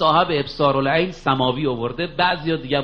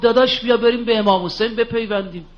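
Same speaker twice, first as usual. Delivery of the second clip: raised urging; 5 semitones higher than usual. Retold or imitated. Retelling the brother's plea, raised.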